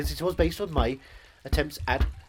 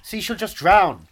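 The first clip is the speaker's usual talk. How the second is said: aggressive rapper rant; 4 semitones higher, 7 dB louder than usual. Acted.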